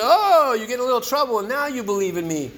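God teasing the man under the bear. Retold or imitated. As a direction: boom down from the heavens, mildly mocking. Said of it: "a voice from the heavens said".

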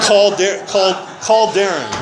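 eager, laughing call to action; giddy and laughing; excited. Retold or imitated. Excited rush to call sponsor.

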